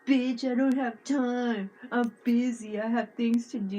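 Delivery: a hint of an irritated buddy snapping back; mock annoyed friend. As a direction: play the busy friend waving her away, lightly. Imitating Will brushing her off.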